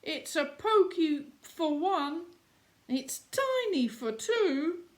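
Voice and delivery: put-on high, loud old lady cry of dismay; a frantic old woman, high and loud. A narrator's reading. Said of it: "The little old lady cried".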